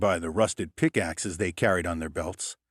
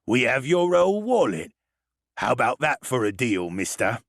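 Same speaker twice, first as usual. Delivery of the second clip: put-on higher, sneering drunk dwarf; spat; 3 semitones higher than usual. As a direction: spit the demand like a greedy thug. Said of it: "he spat".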